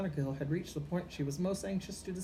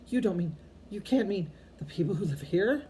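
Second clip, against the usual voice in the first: louder, higher alarmed protest; crying out; 5 semitones higher, 6 dB louder than usual. A narrator's reading. McGonagall protesting to Dumbledore about the Dursleys, loud alarmed cry. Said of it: "cried Professor McGonagall".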